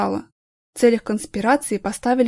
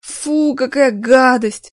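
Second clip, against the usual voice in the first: disgusted; 3 semitones higher, 5 dB louder, much slower than usual. Acted. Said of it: "брезгливо поморщилась".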